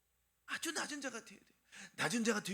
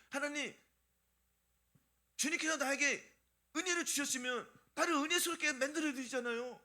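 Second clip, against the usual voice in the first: higher, mock protest to God; defiant complaint; 4 semitones higher than usual. Believer talking back to the Lord over grace, mock defiant. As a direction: talk back as if owed a favour. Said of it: "이렇게 막 주님께 대드는 거예요".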